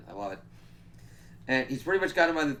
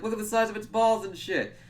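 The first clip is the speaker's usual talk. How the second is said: mock awed voice; 10 semitones higher, 4 dB louder than usual. Retelling monster, put-on voice.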